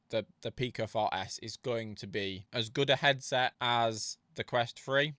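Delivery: talking through a mouthful of crisps; mouth full. Real, not acted. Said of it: "I've got crisps stuck in my mouth".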